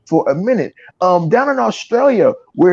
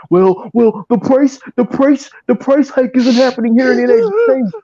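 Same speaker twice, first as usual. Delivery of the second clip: higher, sing-song mock of a company man; a fan mocking the exec's excuse, higher and scornful; mocking a spokesman; 6 semitones higher than usual. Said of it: "stupid fucking look on his face".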